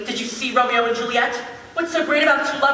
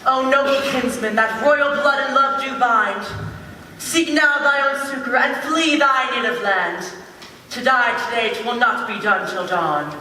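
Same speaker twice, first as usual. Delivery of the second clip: put-on declaimed old-fashioned verse. Actor rehearsing a verse play, declaimed formally. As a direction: recite it as stiff, stately play verse. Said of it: "who talks like this".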